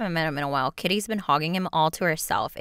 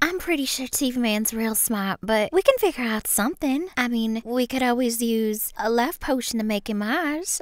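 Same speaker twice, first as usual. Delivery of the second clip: put-on Southern accent; 3 semitones higher than usual. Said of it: "the Southern and the British one".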